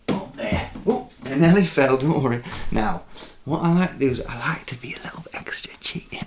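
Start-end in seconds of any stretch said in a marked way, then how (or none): 3.4-6.2 hushed ASMR talk; whispered ASMR. Acted. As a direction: whisper it close to the mic. Whispered cooking chat.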